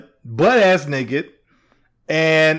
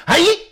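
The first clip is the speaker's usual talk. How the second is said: underhand throw grunt; 11 semitones higher than usual. Shown as a demonstration. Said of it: "it's two different noises".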